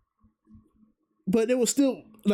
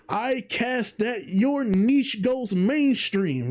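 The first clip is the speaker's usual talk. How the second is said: slow, solemn spell-casting, a bit higher; mock wizard incantation; 5 semitones higher, much slower than usual. Vtuber retelling the wizard joke, mock incantation. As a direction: intone it like a wizard casting a curse. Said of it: "the joke of the wizard going".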